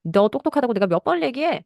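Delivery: acted parental anger. Parent fed up with repeating reassurance, mildly angry. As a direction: play a parent losing patience, without shouting. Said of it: "화가 나면".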